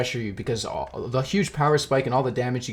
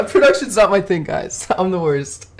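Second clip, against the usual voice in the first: laughing self-deprecation, louder; 6 semitones higher, 6 dB louder than usual. Real, not acted. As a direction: giggle through the confession. Laughing about his blunder.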